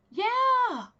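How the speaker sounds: a sudden high, loud break as the voice chokes on one word; voice choking up. Real, not acted. Telling viewers about a father breaking a kite, voice choking. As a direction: let the word crack with emotion. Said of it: "I don't know why he choked up like that".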